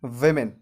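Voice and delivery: विमेन as "WIM-in"; correct pronunciation. Shown as a demonstration. Teacher repeats for learners, विमेन as "wimin". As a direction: begin विमेन "wim", not "wo". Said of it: "क्या होता है".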